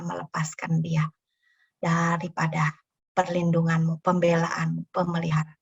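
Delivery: prayer. Acted. Leads closing prayer.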